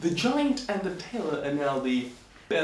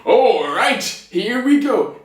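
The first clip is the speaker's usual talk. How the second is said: loud, raised giant voice; booming giant; 7 semitones higher, 7 dB louder, slower than usual. Acted. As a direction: bellow readiness before a big lift. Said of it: "the giant was like".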